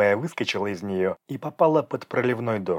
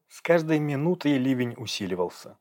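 usual speaking voice

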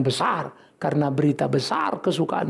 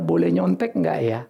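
timid student voice; 12 semitones lower than usual. Pretend.

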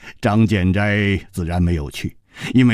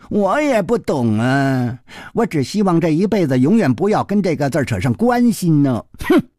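put-on higher boyish whine with a huff; lightly voiced young boy; 5 semitones higher than usual. Boy swearing off love to his friend, mildly sulky. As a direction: drag out the first phrase, then huff.

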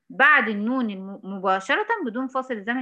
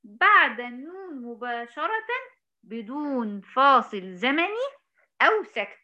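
slow, deliberate teacher's dictation; measured classroom dictation; 2 semitones higher, slower than usual. Shown as a demonstration. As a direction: spell out the rule slowly. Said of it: "teacher slowly stating rule".

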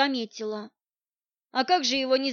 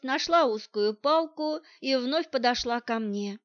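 usual speaking voice

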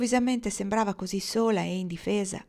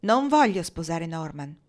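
"Non voglio sposare Norman" spaced out, each syllable hit, louder; every syllable marked; 5 dB louder than usual. A narrator's reading. Rosabel hardening toward Kendra, each syllable of "Non voglio sposare Norman" punched. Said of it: "scandendo bene ogni sillaba".

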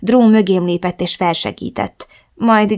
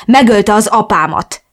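blunt, louder retort; 3 semitones higher, 6 dB louder than usual. Acted. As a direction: spit it bluntly in her face. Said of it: "vágtam nyersen az arcába".

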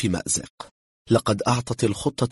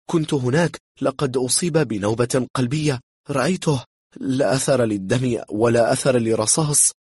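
agitated protest, higher and louder; trembling German; 5 semitones higher, 4 dB louder than usual. A narrator's reading. German witness insists it was a heart attack, agitated protest. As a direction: insist anxiously in a raised voice. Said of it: "ارتعد الألماني".

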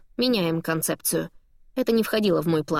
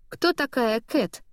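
slow, even and careful, hiding the panic; 4 semitones higher, slower than usual. A narrator's reading. Katie plays dumb when Dimetra names her, slow and even. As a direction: keep it level and unbothered, slowly. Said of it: "спрашиваю я ровным голосом".

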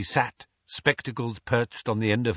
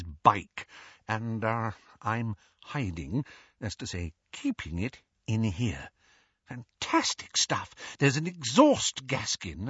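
confiding father; 2 semitones higher than usual. Acted. Mr Weasley confiding about bike.

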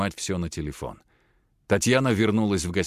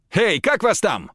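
high, loud call across the room; shouted across room; 12 semitones higher, 6 dB louder than usual. Acted. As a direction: yell it at someone far away. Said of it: "прокричал Платон".

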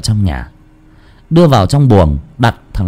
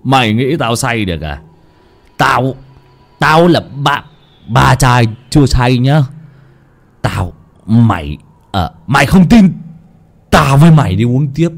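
put-on drunk shouting; 2 semitones higher than usual. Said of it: "chỉ vào mặt thằng Nam mà quát".

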